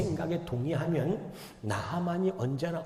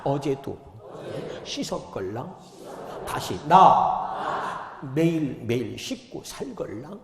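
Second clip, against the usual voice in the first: voicing Naaman; slower than usual. Shown as a demonstration. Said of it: "저를 따라서 한번 해봅시다".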